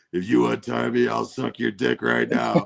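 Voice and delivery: Jack Black. Retold or imitated. Tied-up man bargaining to be untied, lightly mock pleading. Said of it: "that scene where he's tied up".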